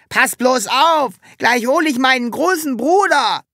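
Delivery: bully threatening Sams; Hubert threatening. A narrator's reading. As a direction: threaten with his big brother. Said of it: "drohte Hubert".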